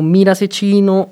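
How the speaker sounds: lightly mocked upper-class teen; lightly imitating a snobby teen; a touch of rich kid. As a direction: tease the rich kids' way of talking. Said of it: "ellos hablan como".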